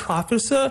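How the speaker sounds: professor mis-stressed as PRO-fess-or; wrong first-syllable stress. Shown as a demonstration. Teacher demonstrating the mistake, first-syllable stress. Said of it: "the first syllable".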